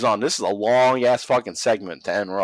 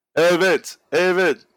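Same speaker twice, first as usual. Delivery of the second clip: put-on New York voice, pitched higher; 7 semitones higher, 4 dB louder than usual. Retelling a wrestling segment, doing Donald Trump's lines: Donald Trump impression. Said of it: "he's basically like a New Yorker".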